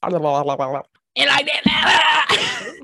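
loud stretched-out declaration; slow loud drawl. Acted. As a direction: drag it out loudly. Noise for listeners.

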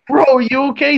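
laughing while asking. Retold or imitated. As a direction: giggle through the question. Asking passed-out friend, laughing.

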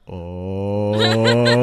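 loud drawn oh; a whole room's gasped ooh; crowd ooh. Retold or imitated. Crowd realizing she burned the heckler, loud ooh.

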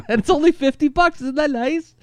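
high, pushy ad pitchman; pushy salesman voice. Pretend. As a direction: needle them like a cheesy salesman. Quoting the ad's pitch.

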